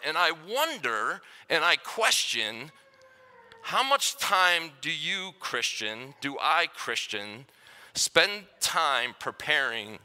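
slow, searching sermon questions with long pauses; reflective sermon. Acted. Pastor asks the church to reflect on preparing, slowly. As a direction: pose each question slowly and let it hang.

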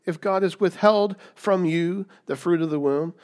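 Jacob snapping at his wife in anger; mock-angry husband; indignant Jacob. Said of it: "He's like".

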